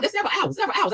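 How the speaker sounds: high, laughing repeat of several hours; laughing disbelief. Real, not acted. Griping to viewers about the wait, laughing high.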